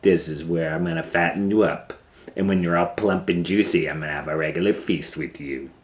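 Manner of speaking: lightly voiced greedy witch. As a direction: savor the threat of fattening him up. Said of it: "said the witch".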